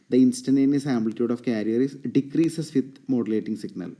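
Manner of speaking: very slow, loud, word by word. Shown as a demonstration. Teacher dictating notes to the class, slow and loud. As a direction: dictate it so the class can copy. Dictates definitions between explanations.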